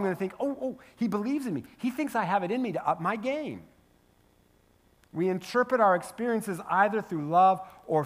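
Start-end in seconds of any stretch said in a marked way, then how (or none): 0.4-3.6 light up with hope, pitch raised; encouraged realization. Acted. Pastor takes friend's advice through love, encouraged. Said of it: "If I view that through love".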